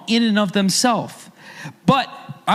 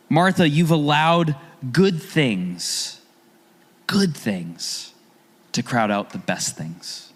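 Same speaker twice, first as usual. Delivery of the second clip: gentle; 3 semitones lower, slower than usual. Retold or imitated. Jesus voiced gently.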